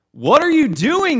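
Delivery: high, loud retold dad outburst; exasperated father yelling. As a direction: imitate a dad exploding at the driver.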